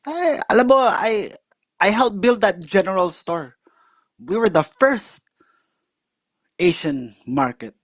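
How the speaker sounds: high-pitched imitation of the uncle; proud uncle pointing out the town, voiced high.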